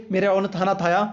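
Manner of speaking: mock toddler lisp, "थाना थाया" with th for kh; lisping baby talk. Shown as a demonstration. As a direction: lightly lisp "थाना थाया" like a small child. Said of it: "अब देखिए तोतला बोलोगे".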